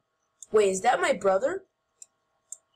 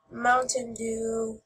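slow, lower mock voice for "Mountain Dew"; silly Mountain Dew voice; 3 semitones lower, slower than usual. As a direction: draw out "Mountain Dew" slowly and a bit lower. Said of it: "I just like saying it like that".

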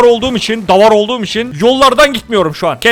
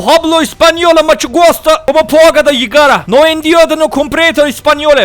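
a hammed-up fake Spanish accent, a bit higher; mock Spanish; 4 semitones higher than usual. Mocking the dying Spanish stranger in fake Spanish gibberish. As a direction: babble it like a tourist faking Spanish. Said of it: "İspanyolca konuşuyor arkadaşlar".

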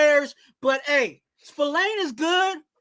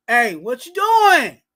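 drawn-out, louder catchphrase; loud call-out; 3 semitones lower, 5 dB louder, slower than usual. Acted. Host launching the segment at a player, calling out. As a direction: stretch the words out and call it loudly. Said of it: "Who was you yelling at saying".

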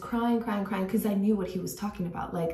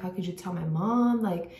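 retold anger at sister; 2 semitones higher than usual. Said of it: "I was cussing at her".

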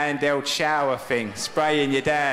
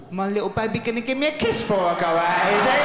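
put-on cooing baby talk; 5 semitones higher than usual. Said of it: "she says to the dog".

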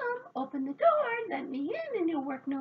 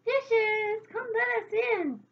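high, loud, pleading holler; calling out; 12 semitones higher, 7 dB louder, slower than usual. A narrator's reading. Locked-out fairies summoning the dishes, high loud call. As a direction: holler through the door for help.

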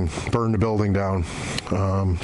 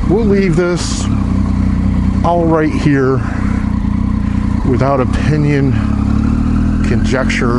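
muffled, close-miked helmet sound; inside a helmet; 8 dB louder than usual. Real, not acted. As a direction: talk from inside a motorcycle helmet. Outro recorded in different setting.

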